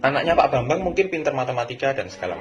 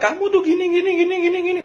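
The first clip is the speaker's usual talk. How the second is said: much higher, louder mock parent nagging; 6 dB louder than usual. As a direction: squeak out a hammed-up nagging parent.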